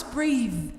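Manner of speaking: "breathe" with a long ee and a buzzing voiced th; verb pronunciation. Shown as a demonstration. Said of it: "The verb you pronounce".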